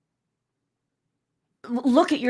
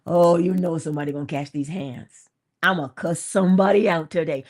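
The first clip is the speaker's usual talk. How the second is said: mock threat; 4 semitones lower, 3 dB louder than usual. Acts someone waking up combative.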